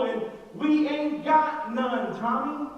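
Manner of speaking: Abraham grumbling to God, mildly hammed-up; exasperated Abraham. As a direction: stretch the words out in mock disbelief. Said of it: "that's how I would say it".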